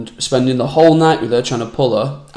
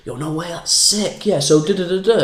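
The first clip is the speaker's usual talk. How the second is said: keeping a friend's story going, mock hyped and higher; mock enthusiastic listener; 6 semitones higher than usual. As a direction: egg the storyteller on with fake excitement. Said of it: "someone starts telling you a story".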